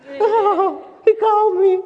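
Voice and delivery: high, giddy swoon with a laugh; lovestruck swoon. Pretend. Preacher mocking a woman in love, giddy laughing swoon. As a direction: melt like someone hearing their sweetheart. Swooning over a lover calling.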